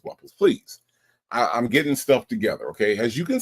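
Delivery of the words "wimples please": squeaky high please; mock plea. Real, not acted. Streamer begging Dimples Wimples, squeaky high plea. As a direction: plead in a falsetto. Pleading with a viewer.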